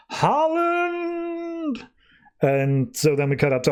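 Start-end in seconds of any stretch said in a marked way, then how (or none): 0.1-1.9 mock villain's cry. Anton in hell naming his true torturer, mock wail. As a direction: stretch it out as a thin theatrical wail.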